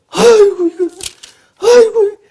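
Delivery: high wailing cry, voice breaking; mother sobbing aigo, hammed-up; mock wailing mother. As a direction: wail it like a weeping wife over the letter. Mother weeping over husband's letter.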